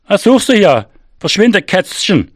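high-pitched, angry director's outburst; angry call. A narrator's reading. Director yells after the cat that tripped him, angry high call. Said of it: "Wütend warf er einen Schuh".

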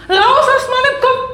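escalating mock-furious yell. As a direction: yell it at the ghost inside you. Possessed woman shouting at grandmother.

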